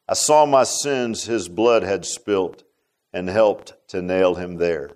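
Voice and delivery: solemn slow hymn recital; poem reading. Acted. Reads hymn words as poem.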